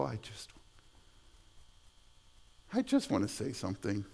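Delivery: low, very soft, restrained remark; holding back. Retold or imitated. Says to Michelle he just wants to speak up, held back and quiet. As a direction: keep it down, holding the urge back.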